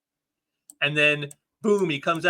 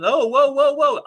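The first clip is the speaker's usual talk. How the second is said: high, loud, goofy whoa; gleeful Hulk; 9 semitones higher, 7 dB louder than usual. Acted. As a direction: ham it up while rolling over them. Hulk rolling on them.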